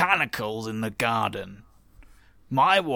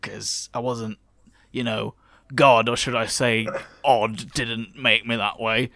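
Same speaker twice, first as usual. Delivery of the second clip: character voice. Acted. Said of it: "I did not intend to stick to this voice".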